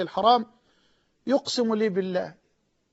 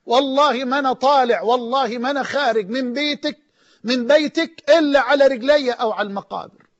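pleading oath shout; 2 semitones higher, 4 dB louder than usual. Retold or imitated. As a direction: swear you won't leave, crying it out. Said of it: "قعد يصرخ". (صرخة قسم عالية)

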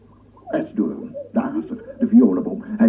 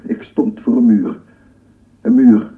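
loud, with a hard stop on muur; louder on Een muur; emphatic; 3 semitones lower, 7 dB louder than usual. Acted. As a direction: hammer home the wall. Scientist stresses his dead end.

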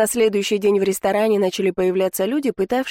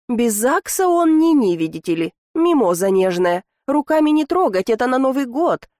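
mocking sarcasm; 4 semitones higher than usual. Heroine mocking the count's prudishness.

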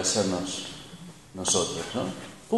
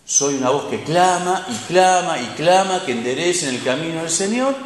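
feeling like John; 4 semitones higher than usual. Pretend. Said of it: "Y se sentía así".

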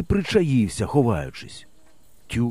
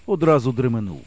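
ordinary delivery, nothing marked

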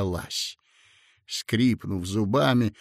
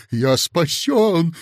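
louder, slow rejoicing; joyful cry; 5 semitones higher, 5 dB louder, slower than usual. A narrator's reading. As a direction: exclaim with relief. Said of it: "ликуя воскликнул". (радостный возглас)

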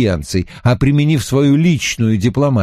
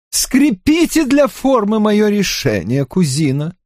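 king's voice; 10 semitones higher than usual. Acted. King Louis speaks in the novel.

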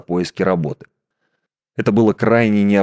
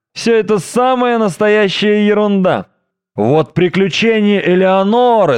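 high, scoffing know-it-all; scoffing philistine; 9 semitones higher than usual. A narrator's reading. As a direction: sneer it off like a pompous layman.

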